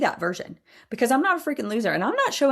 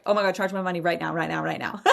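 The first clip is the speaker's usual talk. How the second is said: panicked rush; 3 semitones lower, faster than usual. Retold or imitated. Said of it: "I had to do it so freaking afraid".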